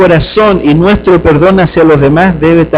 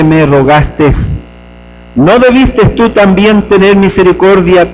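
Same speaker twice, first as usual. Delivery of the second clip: angry lord. Acted. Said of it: "su señor, enojado".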